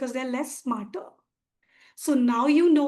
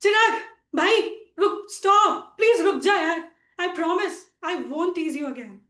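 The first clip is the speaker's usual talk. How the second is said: mock screaming plea; 3 semitones higher than usual. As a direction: call out urgently after a runaway sibling. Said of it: "running behind him screaming".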